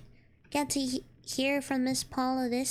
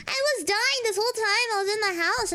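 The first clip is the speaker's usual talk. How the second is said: higher, louder laughing complaint; exasperated; 6 semitones higher, 4 dB louder than usual. Real, not acted. Kid to dad about the scare, exasperated laughing protest. Exasperated at the dad's late news.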